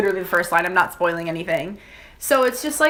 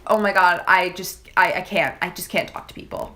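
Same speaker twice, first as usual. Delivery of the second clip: about to cry; 3 semitones lower than usual. Retold or imitated. Stressed student telling friend about homework overload, on the verge of crying. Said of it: "Why did I sound like I was about to cry?".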